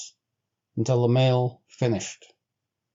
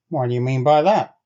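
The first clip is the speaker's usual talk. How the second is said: demanding; 5 dB louder than usual. Acted. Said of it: "Bill demanded".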